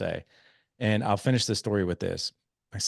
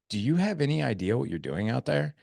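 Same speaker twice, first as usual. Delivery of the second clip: put-on higher, puzzled child's question; imitated incredulity; 5 semitones higher than usual. Son questioning his coach dad, higher incredulous voice. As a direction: voice a son's frank disbelief, pitched up.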